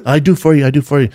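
broken English. Retold or imitated. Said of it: "Her English is terrible".

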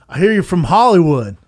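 a hint of a Southern accent, pushed out loud; Southern boy. Southern bar patron challenges a stranger, mock Southern. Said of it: "real Southern boys".

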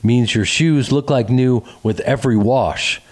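upbeat podcast sponsor read. Acted. Host pitching washable shoes to podcast listeners, lively ad read. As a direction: sell it with lively, personal enthusiasm.

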